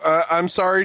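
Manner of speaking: talking while chewing food; words round a mouthful of food. Real, not acted. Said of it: "chewing into the mic".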